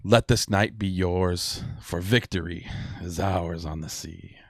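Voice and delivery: lightly voiced pirate captain toasting the crew; a touch of grand, rousing speech-making, easing off at the end; proud toast in a light pirate voice; pirate lord's toast. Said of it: "He's like".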